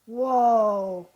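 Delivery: loud, startled exclamation; a sudden loud gasp of amazement; surprised whoa. Retold or imitated. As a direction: let it burst out in shock. Recalling finding the abduction book.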